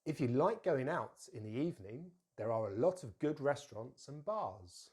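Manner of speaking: careful teacher's model with stressed key words; model sentence. Shown as a demonstration. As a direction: stress "like" and "lot", weak "of" and "and". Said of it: "repeat after me".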